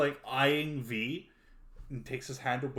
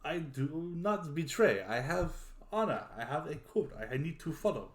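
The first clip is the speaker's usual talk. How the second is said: earnest knight; 4 semitones higher than usual. Acted. Game master voices the knight swearing honor.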